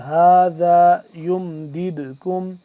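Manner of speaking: یمددکم with an echoing bounce on the silent dal; qalqala on dal. Shown as a demonstration. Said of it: "قلقلہ ہوگا".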